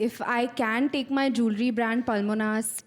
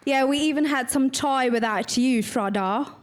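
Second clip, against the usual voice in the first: light British accent, a touch brighter; addressing the crowd in a lightly put-on British accent; 3 dB louder than usual. Shown as a demonstration. Actress demos a British accent for the audience, lightly done. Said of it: "British? Or, or, or American accent".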